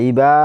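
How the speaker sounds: ইবা with the final "aa" held long; short ই, then draw out বা; one-alif elongation. Shown as a demonstration. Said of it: "এখানেও এক আলিফ টানতে হবে".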